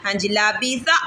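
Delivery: لابیسا read evenly, short vowels unstretched; correct reading. Shown as a demonstration. Teacher models لابیسا for the child, evenly. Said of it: "جھٹکا بھی نہیں دینا، کھینچنا بھی نہیں".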